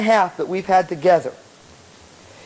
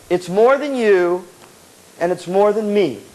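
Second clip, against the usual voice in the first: poem recital; 3 semitones lower than usual. Real, not acted. Recites a poem to band students.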